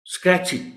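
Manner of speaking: اسکریچنگ said high and carefully; اسکریچنگ with the s and c blended together; pronunciation demo. Shown as a demonstration. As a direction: model اسکریچنگ with one joined scr sound. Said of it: "یہ word میں نے اس لیے choose کیا".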